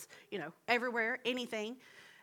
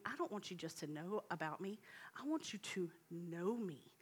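whispered voice of God; 2 semitones lower, 7 dB quieter than usual. Acted. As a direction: breathe it like a gentle whisper of God. God's voice speaking to Elijah.

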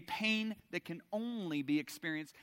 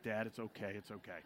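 reassuring; 7 semitones lower, 9 dB quieter than usual. Retold or imitated. Sons reassuring their apologetic dad.

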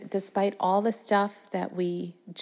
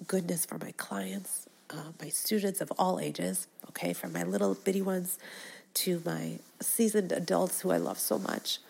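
tender whisper. Real, not acted. Tender wish for clients.

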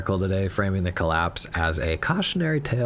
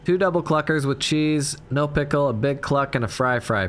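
raised voice, spelling out an order; 4 semitones higher than usual. Acted. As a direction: shout the order into the intercom. Repeats order loudly to speaker.

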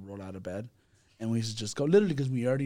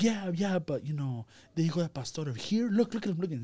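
much higher, louder mock mom insisting; hammed-up mother pointing out the pastor; mimicking mom; 6 semitones higher, 3 dB louder than usual. Son imitating his mom urging them to dress up, high mock insistence.

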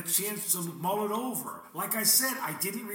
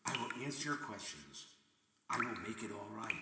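comforting parent; 3 semitones lower than usual. Acted. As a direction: hush the frightened child gently. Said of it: "The parents will comfort the child".

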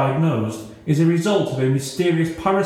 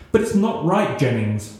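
bursting out. Acted. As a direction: blurt it out in protest. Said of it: "Liz burst out".

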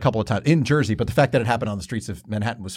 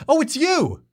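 excited recognition; slower than usual. Retold or imitated. Excited stranger recognizing him.

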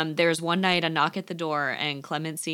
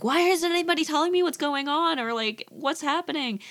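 much higher, frantic asking; frantic question; 10 semitones higher than usual. Retold or imitated. Alfred begging the family for answers, frantic. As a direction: demand answers in a panic.

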